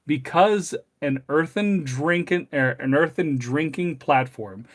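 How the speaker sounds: put-on measured, deliberate reading of an old text; stately recitation with drawn-out key words; formal read-aloud. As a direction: read the passage out slowly, phrase by phrase.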